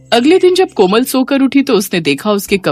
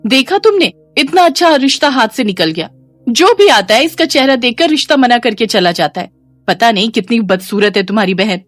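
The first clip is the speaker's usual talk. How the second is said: higher-pitched complaining sister-in-law, lightly voiced; scornful sister-in-law; 3 semitones higher than usual. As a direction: complain bitterly to your husband about his sister. Sister-in-law complains about Komal's looks. (शिकायत करती भाभी की तीखी, ऊँची आवाज़)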